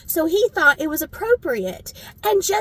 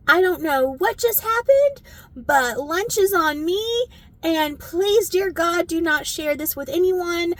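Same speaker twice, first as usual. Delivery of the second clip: mortified apology; 4 semitones higher than usual. Retold or imitated.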